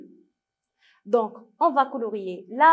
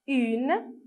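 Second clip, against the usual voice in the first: "moto" as MO, pause, TO; syllable by syllable; much slower than usual. Shown as a demonstration. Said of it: "lisez avec moi".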